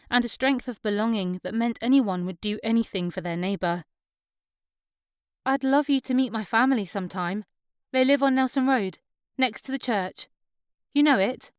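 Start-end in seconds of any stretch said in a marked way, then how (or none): 5.4-11.5 higher, lightly acted invitation; a hint of an eager young woman; lightly voiced eager sister-in-law. Sister-in-law invites the new girl to meet family, lightly voiced.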